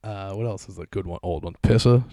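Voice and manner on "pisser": loud Boston "Pissa"; Boston accent. Shown as a demonstration. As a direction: punch out "Pissa" with the R dropped. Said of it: "going, like, the Boston accent".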